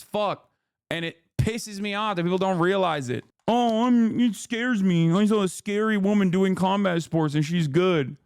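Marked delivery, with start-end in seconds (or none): 3.5-8.2 imitating someone scared; mock fretful. Mocking people scared of women athletes.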